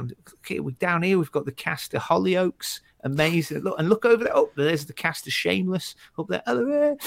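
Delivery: high, bright mock-grand crowd work; compère to the crowd. Comic teasing the audience groups from the stage, high and playful. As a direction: hype up the audience like a host. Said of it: "I used to go".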